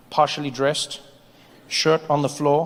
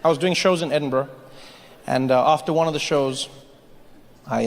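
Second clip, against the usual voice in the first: ordinary talk, nothing marked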